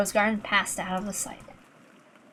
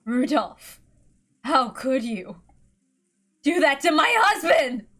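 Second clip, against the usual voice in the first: a touch higher, grieving widow's reproach; tearful accusation; 5 semitones higher, slower than usual. Acted. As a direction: ask through held-back tears. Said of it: "obscured by anger and tears".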